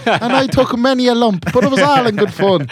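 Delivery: high laughing voice. Retold or imitated. Mock Irish joke, laughing.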